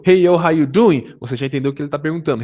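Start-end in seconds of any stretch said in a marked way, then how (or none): 0.0-1.2 casual greeting. Retold or imitated. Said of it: "alguém chegou em você e perguntou".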